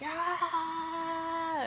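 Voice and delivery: held high loud Ah scream; imitated scream. Face screaming in the dreamer's face, imitated scream. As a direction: scream right in their face. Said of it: "screaming, screaming".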